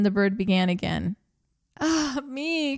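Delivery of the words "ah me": cried wife. A narrator's reading. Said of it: "cried the wife".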